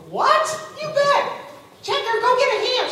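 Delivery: high, loud clerk's call. Retold or imitated. Clerk sending a checker for a ham, calling out. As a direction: holler to a co-worker across the store.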